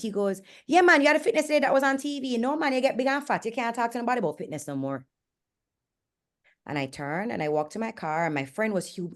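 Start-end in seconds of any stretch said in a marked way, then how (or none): 0.7-5.1 lightly voiced guard, high and fast; quick retold jibe, starting high; blunt security guard. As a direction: imitate the guard rattling off a put-down. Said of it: "And he repeated it".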